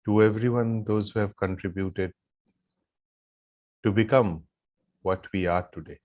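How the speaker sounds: low, soft meditative guidance with long pauses; guided gratitude meditation. Real, not acted. Yoga teacher leading the group in silent gratitude, meditative guidance. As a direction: lead them gently into silent gratitude, leaving long pauses.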